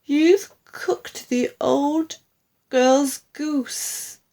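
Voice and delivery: slow, high accusation; reproachful cry. A narrator's reading. Wife glaring at husband, slow reproachful cry. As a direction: stretch out each word in blame. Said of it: "glaring at her husband".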